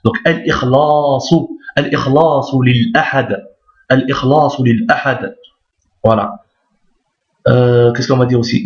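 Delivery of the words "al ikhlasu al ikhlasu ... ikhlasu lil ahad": slow "ikhlasu" with a long held a; measured Arabic reading, lingering on the a of "ikhlasu"; prolonged A. Shown as a demonstration. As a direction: stretch the a in "ikhlasu". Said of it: "c'est la prolongation du A".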